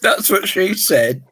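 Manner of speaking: talking with a mouthful of water; words through a mouth of water; water held in mouth. Real, not acted. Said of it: "hold water in my mouth".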